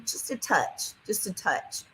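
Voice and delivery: almost whispered qualifier; hushed aside. Real, not acted. Hedging her TV critique to viewers, hushed aside. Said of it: "the tiniest bit slow for me".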